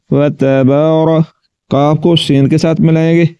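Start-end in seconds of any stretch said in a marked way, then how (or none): 0.1-1.2 व तबार drawn out slowly; slow recitation. Shown as a demonstration. Teacher reciting the corrected word. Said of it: "रा नहीं पढ़ना".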